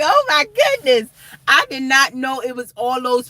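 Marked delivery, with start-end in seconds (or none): 0.0-1.1 high, excited gasp of disbelief; oh my goodness, way up high; amazed at all the viewers on the live; surprised. Retold or imitated. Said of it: "I'm like".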